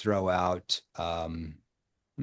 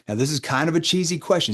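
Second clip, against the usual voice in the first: light, playful teasing tone; 5 semitones higher than usual. Shown as a demonstration. Coach to sales team, playful framing of a cheesy question. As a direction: tease the question before asking it. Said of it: "See, I'm playful".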